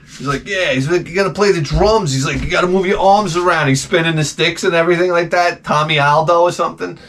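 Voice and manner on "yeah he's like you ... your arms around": coked-out drummer. Retold or imitated. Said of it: "probably all coked out".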